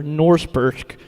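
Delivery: lightly put-on bad American accent; worst American accent. Shown as a demonstration. Reader deliberately botching a foreign name, worst American accent. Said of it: "in the worst American accent ever".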